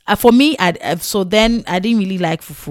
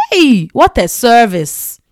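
amazed; 4 semitones higher, 6 dB louder, slower than usual. Retold or imitated. Amazed at bus service.

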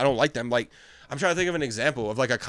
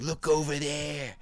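slow mock TV host; slower than usual. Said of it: "He's like".

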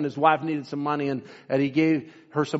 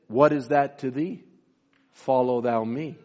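lightly voiced Lord, lower and measured; the Lord answering; 4 semitones lower than usual. The Lord answers the woman's worry, a touch solemn.

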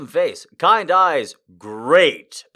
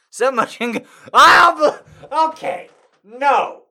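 high, sputtering refusals; 1 flustered protest; 12 semitones higher, 11 dB louder, slower than usual. Real, not acted. Reader balking at the takeoff line, high and flustered. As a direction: stammer and balk at the line.

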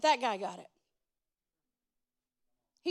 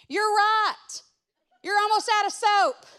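mildly raised, higher calling voice; imitated yell; 4 semitones higher, 3 dB louder than usual. Cleaning lady calling from the bathroom to the guest, mock yell. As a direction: call it through from another room, half-yelled. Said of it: "she yells from the bathroom".

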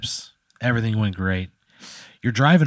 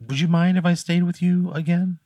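pitched-up, pleading witch voice; lightly voiced witch; 8 semitones higher than usual. The witch asking Pat if she can stay again, high and sweet.

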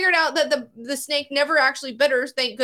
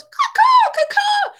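shrieked caw caw, very high and loud; high loud hawk caw; 8 dB louder, slower than usual. Retold or imitated. Hawk screeching at the woman over the snake. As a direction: screech like a hawk diving for its lunch. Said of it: "the fucking hawk goes".

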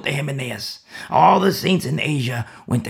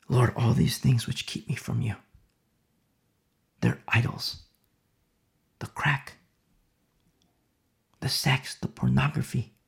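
hushed prayer. Acted. Acted repentant prayer.

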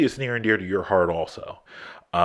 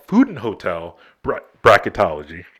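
choking mid-word, voice catching; words cut off by a choke; 5 dB louder than usual. Real, not acted. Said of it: "I'm choking over here".

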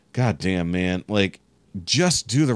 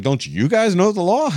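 much higher, louder sarcastic echo of Don't you guys know the law; mocking comeback; 12 semitones higher, 5 dB louder than usual. Turning the cyclists' own words back on them, high sarcastic echo. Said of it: "I was like".

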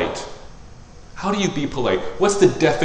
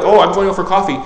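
louder, bright, a touch hammed-up; mock literal reply; 7 semitones higher, 6 dB louder than usual. Preacher mimicking her literal self at coffee, bright loud. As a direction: say it with cheerful literal cluelessness. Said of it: "So I'd be like".

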